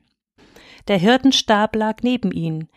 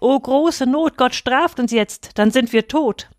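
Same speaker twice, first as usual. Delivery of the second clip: panicked shepherd's cry of doom; frightened cry; 5 semitones higher than usual. Acted. Young shepherd cries out in fear of God, pitched higher. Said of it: "Und er ruft laut".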